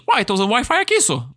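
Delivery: lightly imitated Minas Gerais lilt, falling away at the end; Mineiro accent. Local woman answering about Wi-Fi, imitated Mineiro accent. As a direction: put on a hint of Mineiro accent. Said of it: "todo mundo fala igual o Marcelo Adnet imitando mineiro".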